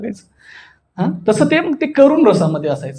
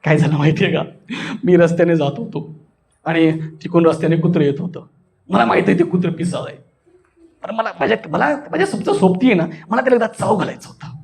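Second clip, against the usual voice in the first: gentle comic telling; 5 semitones lower than usual. Shown as a demonstration. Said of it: "आणि मग एकदम हळूवार".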